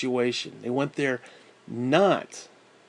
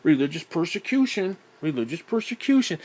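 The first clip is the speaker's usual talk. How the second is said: mock whining; 2 semitones higher than usual. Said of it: "you then sit there and cry".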